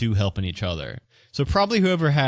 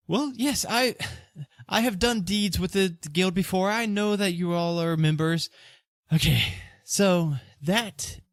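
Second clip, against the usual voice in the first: higher-pitched merchant character, pleading his case; anxious accused merchant; 8 semitones higher than usual. Acted. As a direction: play a worried shop owner in a raised voice.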